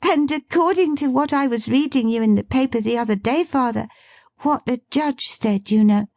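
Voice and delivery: put-on lively girl teasing her dad; girlish Meg. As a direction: tease your father brightly.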